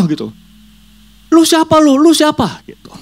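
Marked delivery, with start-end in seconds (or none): 1.3-2.6 very high, angry challenge; demon voice. Acted. Demon confronting the boy, high angry voice. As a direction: demand it like a threatened spirit. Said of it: "Dia ngomong ke si D".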